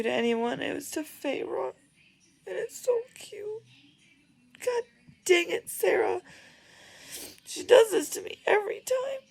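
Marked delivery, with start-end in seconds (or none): 2.5-9.2 high, loud gushing squeal; overwhelmed. Real, not acted. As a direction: gush like a fangirl. Overwhelmed by sweet scene.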